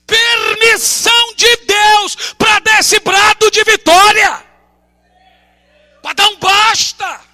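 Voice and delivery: pastor preaching at full force, building to shouts; fiery preaching. Acted. Preacher rallying the congregation, fiery building shout.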